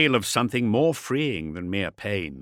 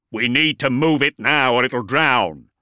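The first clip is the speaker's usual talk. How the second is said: urgent warrior; 5 dB louder than usual. Acted. Armoured warrior urges haste.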